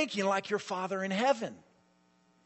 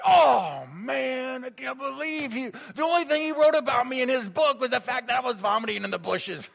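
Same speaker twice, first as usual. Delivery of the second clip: high, loud hammed-up complaint; mock indignant wail; 7 semitones higher, 5 dB louder than usual. Colleague grumbles about the book, mock indignant wail. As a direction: wail in exaggerated dismay, pitched way up.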